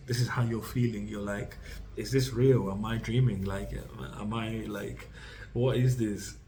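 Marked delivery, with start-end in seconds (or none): 2.0-6.3 louder, giddy can't-believe-it excitement; giddy disbelief. Retold or imitated. Reader voicing Scorpio's giddy disbelief at a dream life, louder and excited. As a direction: gush as if you can't believe your luck. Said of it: "like, really giddy".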